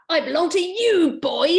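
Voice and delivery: half-committed high fairy voice; a lightly voiced bossy fairy. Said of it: "I'm gonna change my stink voice".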